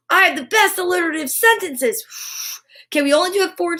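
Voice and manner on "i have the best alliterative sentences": proud affirmation. Shown as a demonstration. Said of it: "and say, "I am".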